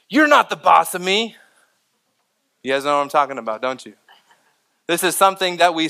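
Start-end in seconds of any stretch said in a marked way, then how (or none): 0.1-1.4 lightly voiced defiant child, higher and louder; raised pitch, pushing back like a kid. Neighborhood kid talking back to someone giving orders, defiant. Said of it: "I'll hear one of them say".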